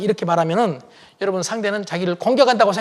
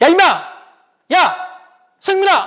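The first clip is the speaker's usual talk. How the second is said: play-acted curt, blunt, high, drawn-out call; 9 semitones higher than usual. Father recalling how he called his son, mock-blunt call. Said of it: "퉁명스럽게".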